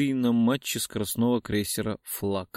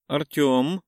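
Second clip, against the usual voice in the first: drawn-out question; 4 semitones higher, 3 dB louder than usual. Acted. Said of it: "вопросительно протянула".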